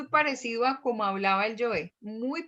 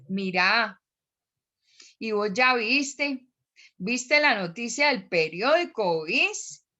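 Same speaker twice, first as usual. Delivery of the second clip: Valle del Cauca accent; slower than usual. Shown as a demonstration. Teacher putting valluno accent on an everyday remark, vallecaucano accent. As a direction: put on a lilting vallecaucano accent. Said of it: "le vamos a poner acento bayuno".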